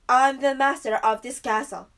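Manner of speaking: a hint of a growling beast. A narrator's reading. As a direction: growl it like a beast guarding his castle. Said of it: "the beast growled".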